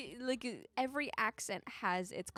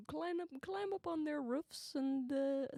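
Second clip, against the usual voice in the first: put-on light Minnesotan accent, dragging out pontoons. Continuing the Minnesotan accent bit for her sister. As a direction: keep the Minnesota lilt going.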